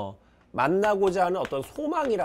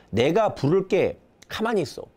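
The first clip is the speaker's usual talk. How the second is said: calling out. Acted. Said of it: "하고 부른단 말이야".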